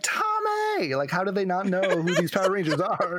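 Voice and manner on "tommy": mock high call of Tommy!; Kimberly calling. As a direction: yell the name in a high pitch. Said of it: "Kimberly is always like".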